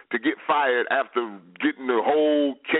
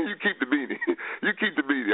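laughing while quoting. Retold or imitated. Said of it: "He said".

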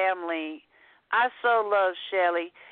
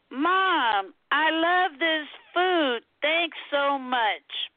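mock scream; 3 semitones higher, much slower than usual. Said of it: "he screams".

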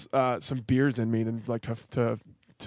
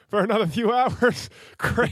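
высокий, громкий сарказм; ядовито: «отлично»; sarcastic; 9 semitones higher, 4 dB louder than usual. Retold or imitated. Sarcastic about stuck flight.

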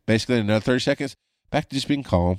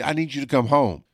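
frantic wife; 5 semitones higher than usual. Retold or imitated. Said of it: "she's frantically c-, call-, she calls me".

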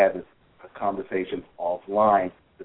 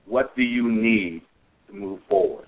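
firm helpful question; 3 semitones higher, 5 dB louder than usual. Shown as a demonstration. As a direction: press them to name what they need. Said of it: "So these key phrases".

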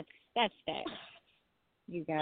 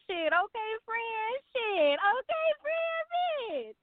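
sassy mock aside; 14 semitones higher, much slower than usual. Poet mocks sassy reaction.

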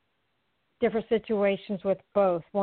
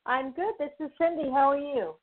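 bubbly; 5 semitones higher than usual. Real, not acted. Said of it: "You sound bubbly".

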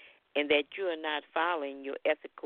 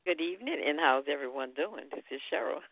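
phone line sound; over a landline phone. Real, not acted. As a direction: caller on a landline. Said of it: "I'm calling from a landline number".

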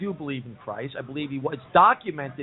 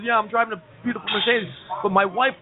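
mock crying; 4 semitones higher than usual. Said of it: "sees the guy with the beautiful Mercedes crying".

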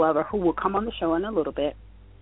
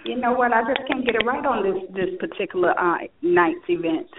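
echoey; 3 semitones higher than usual. Real, not acted. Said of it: "sounds like you're in a tunnel".

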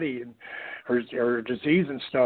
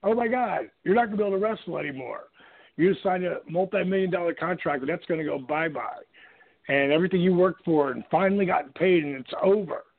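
mock panic; 3 semitones higher than usual. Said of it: "You know, like".

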